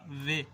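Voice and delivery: medium-length vowel in "وے"; slightly longer "وے". Shown as a demonstration. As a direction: hold the vowel of "وے" a little longer. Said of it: "اس سے تھوڑی سی زیادہ".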